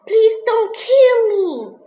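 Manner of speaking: high, loud, slow desperate plea; begging. Acted. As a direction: beg for your life. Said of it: "begged the mouse".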